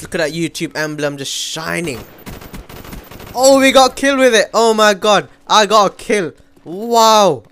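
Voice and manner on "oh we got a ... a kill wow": loud, higher-pitched exclaiming; excited outburst. Real, not acted. Gamer celebrates a gold gun kill, loud and excited.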